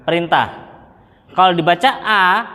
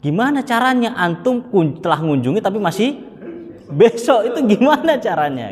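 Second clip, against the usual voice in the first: higher, with laughter breaking through; incredulous laughing; 5 semitones higher than usual. Retold or imitated. The Libyan asking how a visit can be past yet tomorrow, laughing. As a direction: ask it half laughing in disbelief. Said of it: "orang Libi itu ngomong".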